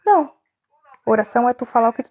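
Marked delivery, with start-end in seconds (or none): 0.0-0.3 sharp high no, cutting it off; firm no. Real, not acted. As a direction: stop it flat with a high no. Rejects the recited prayer. (um não alto e cortante)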